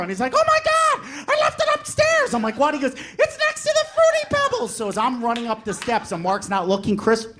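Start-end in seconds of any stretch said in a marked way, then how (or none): 0.3-4.8 very high mock panic; fake dismay. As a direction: play dumb dramatically. Brother feigning forgetfulness.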